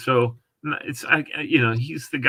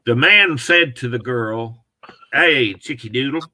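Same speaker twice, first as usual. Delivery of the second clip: Southern accent. Shown as a demonstration. Sampling an audiobook reading, in a Southern accent. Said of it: "do a Southern accent on my book".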